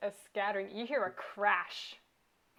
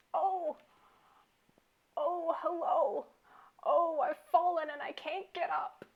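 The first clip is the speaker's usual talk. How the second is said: higher, helpless, struggling turtle voice; 7 semitones higher than usual. Describing a turtle stuck on its back, voicing it struggling to get up. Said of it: "he's trying to get up".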